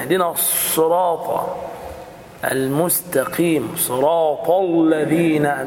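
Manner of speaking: slow, thudding اهدنا الصراط with every letter hammered; mock imams who pound each letter; heavy pounding recitation. Shown as a demonstration. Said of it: "زي ما يكون بيرزع".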